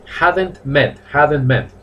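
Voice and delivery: "hadn't met" said slow and clear, leaning on hadn't; teacher models "hadn't" for the student; stressing hadn't. Shown as a demonstration. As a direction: drill the word hadn't.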